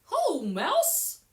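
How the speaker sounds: high, loud cheerful hare voice; high hare greeting. Acted. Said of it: "says Hare".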